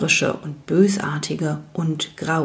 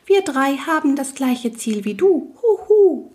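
night goblin voice; 7 semitones higher than usual. Acted.

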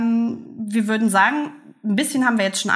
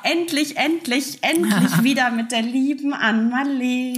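excited; 3 semitones higher than usual. Real, not acted. Joyful reunion greeting.

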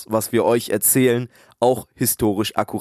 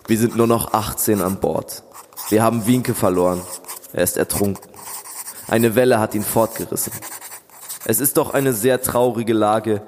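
diary reading. Acted. Reads diary entry aloud.

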